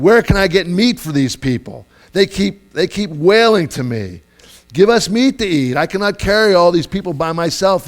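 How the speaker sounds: acted overburdened complaint; frustrated Moses. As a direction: vent at God about an impossible load. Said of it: "getting out all his frustration".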